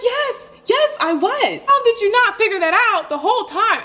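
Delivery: can't believe how clueless they are; exasperated disbelief. Retold or imitated. Telling roommates yes she was on a date, exasperated laugh. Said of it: "in the moment I was so mad".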